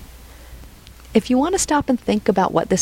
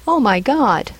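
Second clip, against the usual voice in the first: higher-pitched mild exclamation; emotional interjection; 4 semitones higher, slower than usual. Shown as a demonstration. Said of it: "show high emotion".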